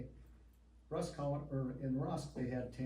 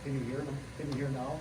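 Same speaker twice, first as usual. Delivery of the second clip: louder, projecting to the back of the room; speaking up; 5 dB louder, faster than usual. Real, not acted. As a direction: raise your voice so the back row hears. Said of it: "Could you speak up, please?".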